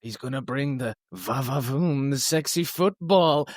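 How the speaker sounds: slow, drawn-out impression of a football hype guy; mock-seductive football pundit voice; hype-man impression. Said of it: "that guy who's like".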